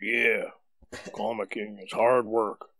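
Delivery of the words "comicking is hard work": a light ad-voice read; understated commercial announcer. Pretend. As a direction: read it like an advert pitching a product. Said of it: "It sounds like a commercial".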